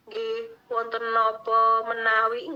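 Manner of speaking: slow, deferential polite reply; bow your voice, answer respectfully and slowly; polite Javanese krama. Shown as a demonstration. Child answering a parent in polite krama, slow and deferential. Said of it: "bahasa kromo-kromo inggilan sama orang tua".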